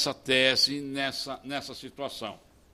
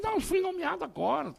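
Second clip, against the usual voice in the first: high-pitched, hurried reply; squeaky-high mock disclaimer; retold protest; 4 dB quieter, faster than usual. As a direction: protest quickly in a raised pitch.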